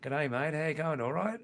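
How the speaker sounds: lightly shown-off Aussie greeting accent; Australian accent. Shown as a demonstration. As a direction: give a casual Australian-accent greeting, lifting at the end. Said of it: "can you recognise my Australian accent".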